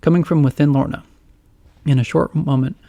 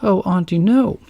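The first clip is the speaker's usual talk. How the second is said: pleading; 6 semitones higher than usual. Acted. Lorna protesting.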